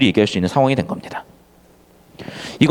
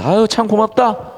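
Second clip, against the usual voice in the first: sarcastic thanks; 4 semitones higher, slower than usual. Shown as a demonstration. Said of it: "이런 느낌이 반어인 거야".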